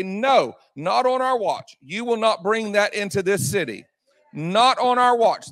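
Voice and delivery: defiant declaration. Acted. Preacher voices church resisting evil.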